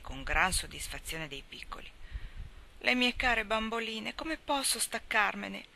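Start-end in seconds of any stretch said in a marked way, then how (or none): 2.8-5.6 1 moaning. Acted. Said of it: "gemette Daisy".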